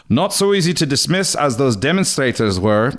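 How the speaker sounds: lightly voiced Geraldo Rivera impression; mild newsman impersonation. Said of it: "Rivera called the television ads".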